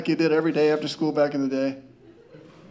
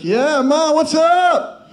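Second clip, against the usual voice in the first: put-on higher, louder, breezy innocent teen voice; fake casual innocence; 8 semitones higher, 4 dB louder, slower than usual. Stoned son greets his mom with fake casual cheer. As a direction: play it cool to hide being stoned. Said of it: "I was like".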